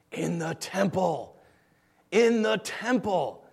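slow, drawn-out reply; emphatic answer. Acted. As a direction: stretch out the obvious answer. Ancient people's answer, acted.

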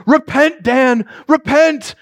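high, loud ghostly wail; moaning ghost. Acted. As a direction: draw the words out like a wailing spirit. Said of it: "Tony starts moaning".

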